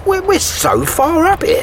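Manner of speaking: high, slow and shaky with fear of the height; nervous. Acted. Contractor on the scaffold, frightened of the height. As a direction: stammer it out, scared of looking down. Scared on high job site.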